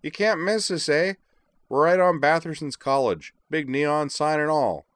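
whiny Middle Ontario drawl, high and loud; loud, stretched-out Middle Ontario accent. A narrator's reading. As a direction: mimic a whining Middle Ontario local. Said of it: "mutated into a Middle Ontario drawl".

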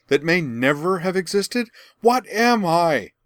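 high, loud, desperate crying out; anguished outcry. A narrator's reading. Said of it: "Azula spun toward her and cried".

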